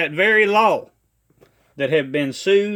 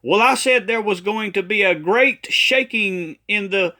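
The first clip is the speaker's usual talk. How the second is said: mock defensive prophet, pitched higher; prophet's excuse; 5 semitones higher, 3 dB louder than usual. Critic mimics a prophet called out, mock insistent. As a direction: imitate someone insisting he was right. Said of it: "he'll say".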